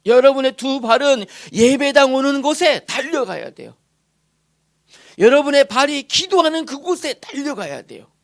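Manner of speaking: loud, high exhortation to the congregation; rising sermon climax, loud; fervent preaching. Acted. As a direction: preach it at full force.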